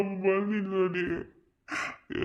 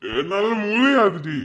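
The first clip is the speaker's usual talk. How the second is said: loud refusal; 4 semitones higher, 5 dB louder than usual. Acted. Man refusing on the phone.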